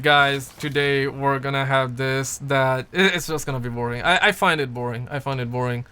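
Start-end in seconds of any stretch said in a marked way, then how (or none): 0.0-2.8 slow, lower, one-note streamer intro; deliberately dull monotone; monotone demo. Shown as a demonstration. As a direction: drone it out slowly to show how boring it sounds. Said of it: "I don't wanna be talking in one single".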